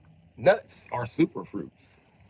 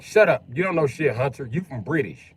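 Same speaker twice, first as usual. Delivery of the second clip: mock telling off; 3 semitones higher, 4 dB louder than usual. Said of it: "And I'd be like".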